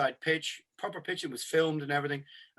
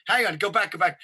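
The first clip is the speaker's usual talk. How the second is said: higher and louder to cut in; louder hang on; 3 semitones higher, 6 dB louder than usual. Real, not acted. Cutting off his co-host's question, louder and higher. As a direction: raise the voice to stop the other speaker. Interrupting the football hypothetical.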